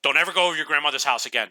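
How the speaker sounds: mild mock yell, fast; retold yell. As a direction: snap it fast like an angry mom. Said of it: "She just yelled it at me".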